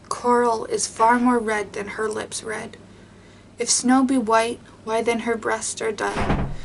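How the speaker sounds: measured, even reading of a sonnet; poem reading. Acted. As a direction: read the verse with care and weight. Reads sonnet one hundred thirty.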